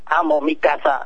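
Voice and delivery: flat robotic delivery. Shown as a demonstration. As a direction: say it like a robot, evenly. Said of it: "The first one was almost robotic".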